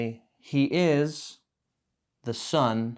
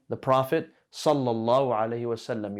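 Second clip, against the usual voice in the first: unhurried sincere blessing; teacher showing a heartfelt blessing; said as a praise. Shown as a demonstration. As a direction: give each word of the blessing its weight. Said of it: "So you say".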